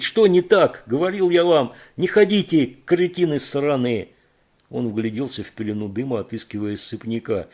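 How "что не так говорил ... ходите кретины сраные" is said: high, loud cursing yell; loud angry rant; furious shout. Acted. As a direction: rage at the idiots. Кейт keeps yelling at them.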